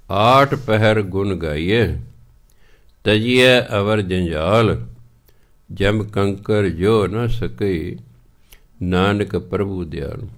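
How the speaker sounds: slow, measured reading of the verse; scripture recitation. Acted. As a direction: intone each phrase slowly and deliberately. Recites the shlok slowly. (ਹੌਲੀ ਹੌਲੀ ਸਲੋਕ ਦਾ ਪਾਠ)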